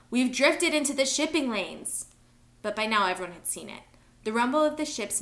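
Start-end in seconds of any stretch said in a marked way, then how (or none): 0.1-2.0 high, loud, slow warning; urgent slow shout; alarmed yell. A narrator's reading. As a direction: call out the danger, drawn out. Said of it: "Lito yelled".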